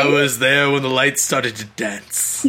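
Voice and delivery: low, lightly voiced old-timer; mock ancient elder. Teasing friend about raves as an ancient elder, low mock voice. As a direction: talk like a wise old elder. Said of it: "you were like".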